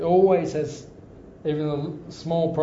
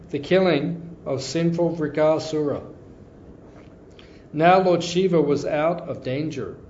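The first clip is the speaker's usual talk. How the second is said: slow, solemn storytelling with weighty pauses; scripture reading; slower than usual. Acted. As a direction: read the holy story as if to a hushed temple hall. Reads scripture passage aloud.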